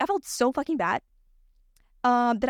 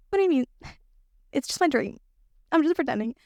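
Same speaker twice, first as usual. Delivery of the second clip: excited high voice; 4 semitones higher than usual. Retold or imitated. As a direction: blurt it out with surprise. Retold reply, laughing.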